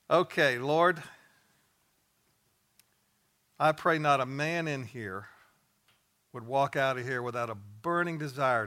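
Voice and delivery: fervent, emphatic prayer aloud; preacher's public prayer; closing prayer. Real, not acted. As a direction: pray earnestly over the men in the room.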